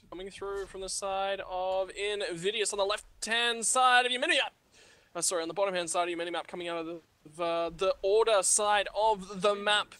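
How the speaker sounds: lightly put-on British lineup read; a hint of a grand British caster; mock British announcer. Reading the Invidious lineup, in a light mock British accent. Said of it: "Your British accent".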